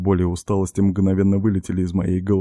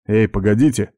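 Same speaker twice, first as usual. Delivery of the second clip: a touch louder call to stop them; shout; 4 dB louder than usual. Acted. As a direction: call after them to wait. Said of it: "крикнул я".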